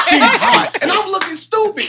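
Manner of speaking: high burst of laughter; laughing. Real, not acted. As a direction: laugh out the words. Laughing at his own story.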